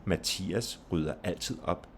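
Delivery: name "Mathias" stressed, with "altid" and "op". Shown as a demonstration. Teacher using a name, stress on "Mathias". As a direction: give "Mathias", "altid" and "op" weight, "rydder" light. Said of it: "stress on the name".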